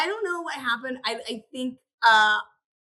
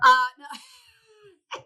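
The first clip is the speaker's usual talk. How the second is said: whining no, pitched up; high whiny protest; 9 semitones higher, 6 dB louder than usual. Real, not acted. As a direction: playfully whine it, high and loud. Playful denial to friend.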